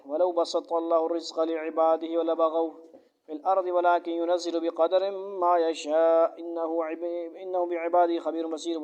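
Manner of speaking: quick, flowing recitation of the verse; Quran recitation. Acted. Teacher recites the verse before translating, quick recitation. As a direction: recite it briskly in one breath-like run.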